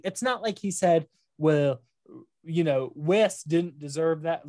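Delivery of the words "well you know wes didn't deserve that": put-on a touch of Southern accent; mild Southern accent on a quote. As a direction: slip lightly into a Southern accent. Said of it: "Look, I'm doing a Southern accent".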